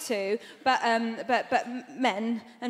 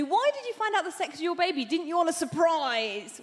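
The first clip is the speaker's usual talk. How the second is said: higher start, slowing into the question; nosy questioners; 3 semitones higher than usual. Acted. People question her about the scan, mock baffled. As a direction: lightly mimic baffled, prying people. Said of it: "people said to me".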